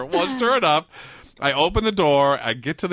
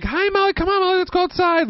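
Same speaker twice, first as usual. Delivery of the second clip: high-pitched talking-to-dog voice; coaxing a dog; faster than usual. Retold or imitated. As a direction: call the dog over, pitched way up.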